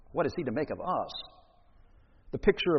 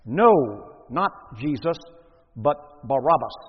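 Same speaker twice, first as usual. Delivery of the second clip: emphatic cry, word by word; crowd crying out; 7 dB louder than usual. A narrator's reading. The crowd answers Pilate about releasing a prisoner, crying out. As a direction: call it out in separate, forceful bursts. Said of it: "they cried out very loudly".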